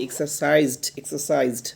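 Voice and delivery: "এক্সারসাইজড" with a push into the final -zd; "এক্সারসাইজড", teacher demonstrating the pushed ending. Shown as a demonstration. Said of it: "দেখছেন কি ধাক্কা দিচ্ছি".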